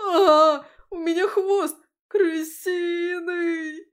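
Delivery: drawn-out panicked howl; piercing scream. A narrator's reading. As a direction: shriek in horror. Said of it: "пронзительный вопль испуганного юнца".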